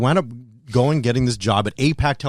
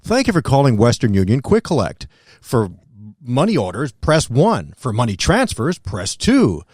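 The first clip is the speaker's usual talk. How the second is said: phone menu voice; 3 semitones lower, slower than usual. Retold or imitated. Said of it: "they even made me the voice of the center".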